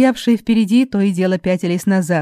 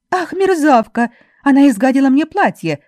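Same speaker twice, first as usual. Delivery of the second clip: outraged shout; 7 semitones higher, 3 dB louder than usual. A narrator's reading. Virginie shouts after blue water is splashed on her, outraged. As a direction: yell it like your dress was just ruined. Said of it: "закричала Виржини".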